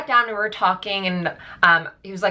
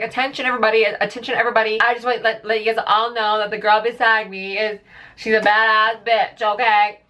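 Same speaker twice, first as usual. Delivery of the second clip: raised, higher voice calling to the whole plane; mock announcement; 4 semitones higher than usual. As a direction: announce it like a tipsy passenger. Drunk friend announcing to plane.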